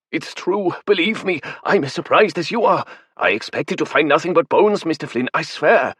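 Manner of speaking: high, strained scholarly voice; a frightened professor insisting; nervous academic. Acted. Academic insisting to Flynn the vampire is real, high and nervous.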